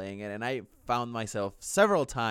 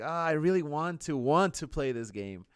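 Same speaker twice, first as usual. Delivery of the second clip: mildly eager mock craving, starting higher; imitated enthusiasm; 4 semitones higher than usual. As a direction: act out wanting it, drawing out the end. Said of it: "enthusiasm for playing".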